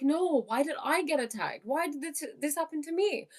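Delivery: mock self-pitying inner voice; whiny ego. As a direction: whine like a hurt ego asking why me. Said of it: "The ego's like".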